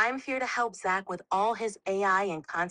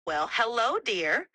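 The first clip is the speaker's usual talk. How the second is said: gentle grandmotherly voice to a little one; grandmother to child; 2 semitones higher than usual. Shown as a demonstration. AI playing a grandmother talking to a child, lightly voiced. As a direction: talk like granny showing a grandchild. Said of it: "like a grandmother speaking it to a child".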